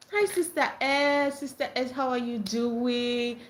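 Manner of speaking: slow, lightly voiced gentle hello; a hint of a demure sweet voice; sweet greeting imitation. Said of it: "T is just so".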